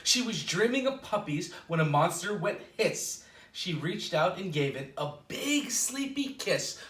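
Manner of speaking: storybook read-aloud with a gentle lilt; reading to children. Acted. Librarian reading a picture book to children, lilting. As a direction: read it like bedtime story time.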